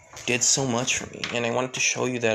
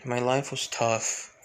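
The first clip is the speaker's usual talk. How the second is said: subdued confession. Acted. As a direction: let the hard past weigh each word. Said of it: "Alexis just looking down".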